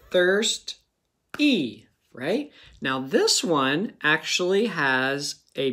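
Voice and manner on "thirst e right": "Thirst" and "E" clapped apart; clapping syllables. Shown as a demonstration. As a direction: clap "Thirst", then "E". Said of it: "First I clap it".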